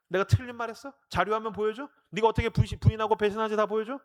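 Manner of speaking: challenging retort. Acted. Jesus answering Peter's protest, mock challenging retort. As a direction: fire questions back to prove your point.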